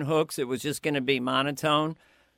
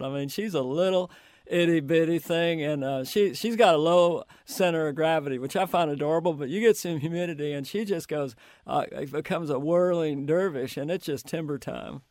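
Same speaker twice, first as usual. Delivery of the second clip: Bill Clinton impression. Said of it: "do my Clinton".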